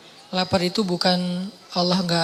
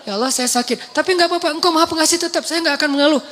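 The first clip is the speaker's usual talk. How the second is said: gentle accepting prayer; 7 semitones higher than usual. Retold or imitated. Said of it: "cuma bilang".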